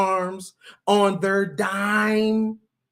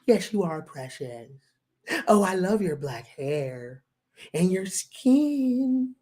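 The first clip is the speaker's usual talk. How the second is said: coddling white man; 3 semitones lower than usual. Retold or imitated. Mock white man coddling Black men, hushed lower cooing. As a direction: coo over him like a pet. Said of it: "That's what it sounds like".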